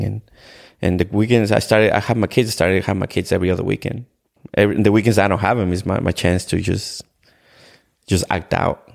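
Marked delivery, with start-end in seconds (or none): none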